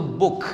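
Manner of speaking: book ending on a crisp released k; final kaf in book. Shown as a demonstration. Teacher shows book ends in kaf, clearly articulated final k. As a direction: close book firmly on a kaf sound. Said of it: "kaf itu ujungnya".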